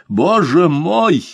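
high, slow gasp of terror; frightened cry. A narrator's reading. Governor hears he may hang, terrified. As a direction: cry out, trembling with fear. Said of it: "воскликнул Бишоп, задрожав от страха".

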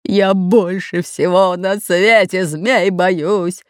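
slow, growled confession of fear; a lightly growled big pirate. A narrator's reading. Red-bearded pirate admitting his fear of snakes, growling. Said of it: "рычал Рыжебородый".

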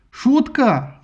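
shouted high and loud; indignant hero yelling; angry yell. A narrator's reading. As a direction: bellow it in outrage. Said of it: "заорал он".

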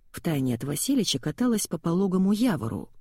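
plain reading voice

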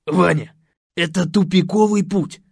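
loud preachy pronouncement; holding forth. Acted. Host lectures the man about women, preachy. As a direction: lecture him like an oracle. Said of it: "вещал Василий".

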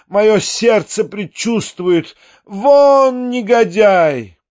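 put-on high, drawn-out outraged old lady; imperious angry mother. A narrator's reading. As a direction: wail indignantly, stretching the final words. Old mother angrily throws visitor out. (капризная разгневанная маменька)

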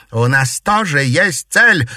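high, loud, slow cry; defiant shout. Acted. Daughter shouting her purpose at her mother, defiant. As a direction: fling it back at her. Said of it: "крикнула Дельфина".

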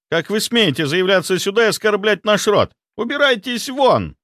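high, loud shrieked order; outraged healer shrieking; shrieking outrage. A narrator's reading. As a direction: screech him out of the room. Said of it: "взвизгнул он".

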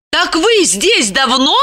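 high, slow woman's question; slow down as it dawns on you; dawning realisation. A narrator's reading. Lipochka realises how long he hid, slow and surprised. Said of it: "прозрела Липочка".

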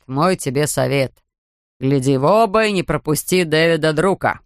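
lightly voiced grumpy beach attendant; gruff ticket man. Ticket man, now friendly.

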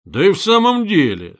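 Ба! burst out loud, sudden; startled realisation, called out; surprised shout. A narrator's reading. Koch suddenly realises the door is bolted, surprised shout. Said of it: "закричал удивившийся Кох".

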